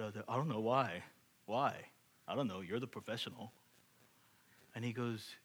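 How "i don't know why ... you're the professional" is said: mock-clueless, low and offhand; playing dumb. Homeowner dodges the handyman's question, playing dumb. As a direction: feign ignorance, dodge the question. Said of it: "And I acted stupid".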